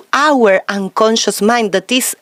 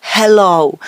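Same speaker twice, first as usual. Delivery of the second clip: round voice; 3 semitones lower, much slower than usual. Shown as a demonstration. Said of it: "simple words like relax".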